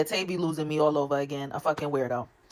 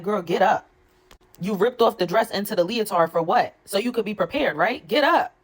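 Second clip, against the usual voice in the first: exasperated urging; 4 semitones higher, 3 dB louder than usual. Real, not acted. Urging DTB to fight.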